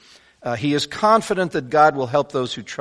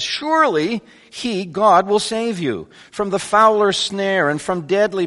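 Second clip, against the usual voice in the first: "Surely" pitched high and leaned on; emphatic confidence; 5 semitones higher than usual. Acted. Preacher reading the psalmist to readers, emphatic and confident. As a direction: read it out with certainty, raised pitch from "Surely" on. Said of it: "he wants his readers to get this".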